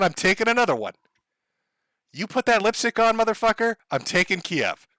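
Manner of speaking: lightly voiced swaggering Putin, taunting; mocking taunts of a conqueror; Putin impression. Putin taunting men in makeup, a hint of a swaggering tough guy. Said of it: "a translation of his speech".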